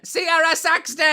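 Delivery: high, loud, super nasal; Sierra Saxton. Shown as a demonstration. Voice actor announcing a character in her voice, high and nasal. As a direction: announce it slowly, air up and out through the face. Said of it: "She's super nasal".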